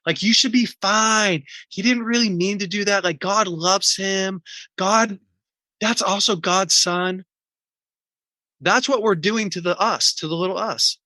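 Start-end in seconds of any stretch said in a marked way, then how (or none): 0.1-7.2 put-on higher, preachy reassurance that shuts the kid down; brushing-off parent. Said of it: "And you're like".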